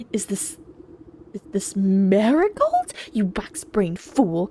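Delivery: hissed, slow and scornful; scornful whisper. Acted. Queen bee scorning the beekeeper, whispered. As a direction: whisper the insult with contempt.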